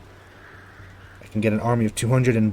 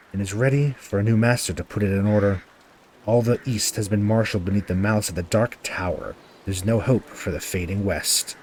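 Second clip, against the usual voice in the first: dramatic narration. Acted. Reads the game's intro narration.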